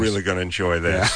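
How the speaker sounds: muttered sarcastic enjoyment; understated fake satisfaction; passive aggressive. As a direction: pretend to be pleased while seething. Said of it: "I would be passive aggressive".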